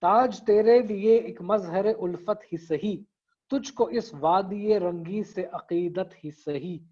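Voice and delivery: couplet recited slightly slow; poetry recitation. Shown as a demonstration. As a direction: recite the couplet with measured rhythm. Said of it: "ये बता रहा है शेर खुद से". (शेर को ठहराव से पढ़ना)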